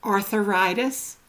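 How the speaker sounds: "arthritis" with an uh after th, arth-uh-ritis; extra vowel. Retold or imitated. Quoting how people say it, extra syllable in "arthritis". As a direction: slip an added vowel into "arthritis" between th and r. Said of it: "have you not heard people say".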